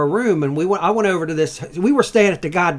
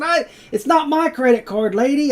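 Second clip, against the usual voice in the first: retold outraged yell; 11 semitones higher, 4 dB louder than usual. Hungover guest yelling back at motel lady, mock outrage. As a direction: stretch out the indignant protest.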